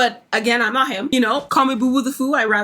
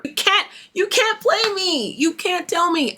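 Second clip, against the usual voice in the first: emphatic disbelief; 7 semitones higher than usual. Acted. Mock challenge, refusing to be fooled.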